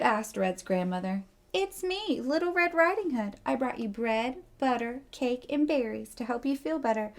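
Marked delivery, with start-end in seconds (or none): 1.5-7.1 wolf faking a high sweet voice; high-pitched voice. Acted. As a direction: start very high, then ease down. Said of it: "said the wolf in a little high-pitched voice".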